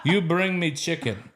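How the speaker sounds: put-on slow, amused Ghanaian accent; a light Ghanaian accent. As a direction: Ghanaian coworker orders a chicken, in a Ghanaian accent. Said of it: "it mixes in with his accent".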